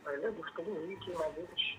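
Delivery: softly spoken, hard to hear; faint voice. Real, not acted. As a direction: speak too quietly to carry down the line. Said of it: "आवाज़ कम आ रही है".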